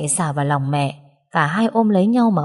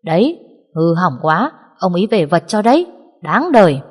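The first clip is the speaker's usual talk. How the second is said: spiteful gossip; 4 dB louder than usual. Acted. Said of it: "được dịp rẻ biểu".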